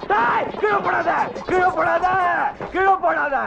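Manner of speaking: frantic begging not to be dropped; scared pleading while being carried off; panicked plea. Acted. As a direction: plead fast as they lift you.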